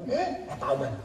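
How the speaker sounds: put-on Swiss German accent. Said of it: "aber ich bin ein Schweizer".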